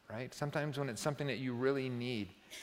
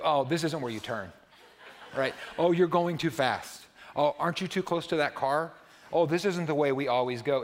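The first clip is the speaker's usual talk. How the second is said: put-on louder, fussy child correcting dad's driving; four-year-old backseat driver; 5 dB louder than usual. Grandchild scolding grandpa's driving, in a loud fussy child voice. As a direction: nag like a little kid from the back seat. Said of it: "a four-year-old tell you".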